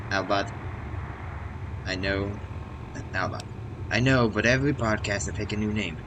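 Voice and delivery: lightly voiced cheery robot host; hint of a chirpy robot announcer; robot podcast host. Voicing Albot robot podcaster.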